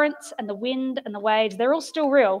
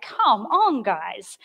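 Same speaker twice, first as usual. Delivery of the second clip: exasperated rebuke; much slower than usual. Acted. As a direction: scold the group, dropping at the end. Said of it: "Like that angry, like".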